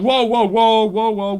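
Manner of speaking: imitating guards rushing in, high and loud; urgent intervention. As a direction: break up a fight, mock urgent.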